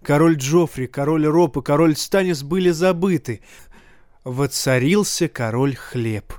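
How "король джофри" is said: ordinary delivery, nothing marked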